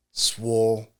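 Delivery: slow, weighty announcement of the idea; slow pitch reveal; dramatic reveal. Retold or imitated. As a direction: unveil it like a eureka moment. Don pitching his big idea.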